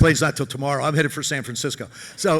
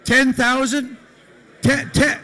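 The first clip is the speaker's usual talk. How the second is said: surprised; 8 semitones higher, slower than usual. Real, not acted. Stunned by a huge bid.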